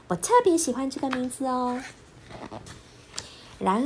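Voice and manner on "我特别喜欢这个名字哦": gentle, pleased little voice; fond, happy cub. Acted. Bear cub happily tells Pipi about his favorite name. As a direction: say it like treasuring the name. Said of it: "熊豆豆一边炒菜一边说".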